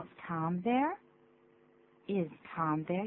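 THERE rising at the end; rising intonation. Shown as a demonstration. Teacher models a phone question, rising on THERE. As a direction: lift the pitch steadily on THERE. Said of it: "要上扬".

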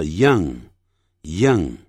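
put-on "young" with the short uh of 饿; correct vowel. Shown as a demonstration. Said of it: "肚子饿的饿".

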